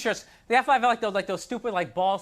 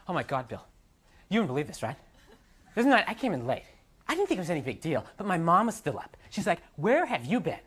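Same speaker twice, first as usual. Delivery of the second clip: put-on girl's story voice; 4 semitones lower than usual.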